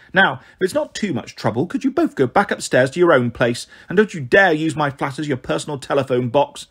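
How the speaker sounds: disdainful, scolding neighbour voice; indignant lecture from a disapproving neighbour. Acted. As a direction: tell them off with withering disapproval. Neighbour scolds in acted dialogue.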